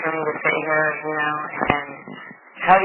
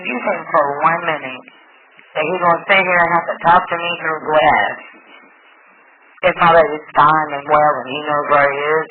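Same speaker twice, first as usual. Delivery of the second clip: louder, furious challenge; angry retort; 8 dB louder than usual. Retold or imitated. Mother confronting police about Ruben, angry and loud. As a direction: throw the question at them in anger.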